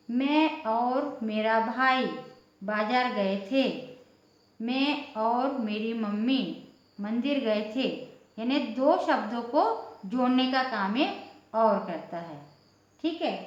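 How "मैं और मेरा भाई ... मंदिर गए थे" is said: slow example sentences. Shown as a demonstration. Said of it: "और का मतलब क्या हो जाएगा".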